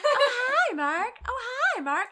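high, loud laughing parody of a cheesy movie line; mock cult-film line, cracking up; bad movie impression. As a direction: ham up the famous bad movie greeting. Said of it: "the god-awful movie The Room".

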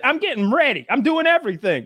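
high, whiny mock woman's voice. Guest imitating a woman stalling the cop, high and whiny.

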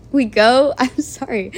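breaking into real laughter; laughing hard. Real, not acted. Vlogger apologizing mid-story for cracking up, laughing hard. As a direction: apologize through a fit of laughter. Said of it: "I don't know why I'm laughing so hard".

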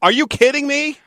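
high, stunned disbelief; are you kidding, rising in shock; incredulous. Real, not acted. Host stunned his co-host never saw The Good, the Bad and the Ugly.

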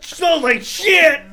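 put-on high, slow, laughing girly voice; squeaky mock girl voice. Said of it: "do the girl voice again".

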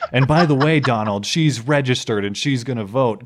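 hammed-up debate bombshell; mock dramatic reveal. Host retells Hillary's big debate reveal, mock dramatic. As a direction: tease it out like a big scandal, hitting the turns.

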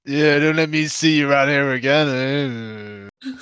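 see him off as a Scottish-sounding orc; muddled Scottish accent. Acted. Disguised orc sends Arnulf away, in a muddled Scottish accent. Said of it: "in that accent".

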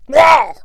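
imitating an announcer's startled noise; imitated mouth sound. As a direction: blurt a mock "wow" noise. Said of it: "he makes a mouth sound instead".

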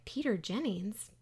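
slow, faintly disapproving disbelief; mildly scowling mother. Acted. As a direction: draw it out as a let-down mother. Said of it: "scowls a little bit".

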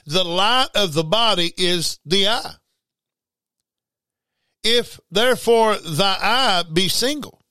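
slow, deliberate scripture reading; each phrase slowed and spaced out. Shown as a demonstration. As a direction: read it slowly so they get it. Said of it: "I'm gonna read that real slow".

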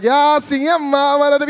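hammed-up cry of recognition; imitated movie moment. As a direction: call it out like the stirring part of a film. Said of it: "got to the part that it was like".

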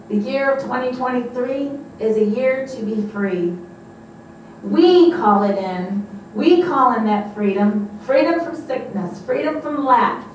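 emphatic, chant-like proclamation; preached declaration. Real, not acted. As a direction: lead the congregation in a rousing declaration.

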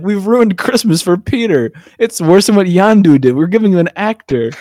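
hammed-up alarm; retold dismay. Acts out characters' horrified panic.

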